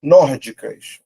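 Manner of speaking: "Nórdicas" with a loud punch on NÓR; stressed first syllable. Shown as a demonstration. Teacher showing where the accent sits, first syllable stressed. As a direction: hit NÓR in "Nórdicas", let the rest drop. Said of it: "o acento tá aqui".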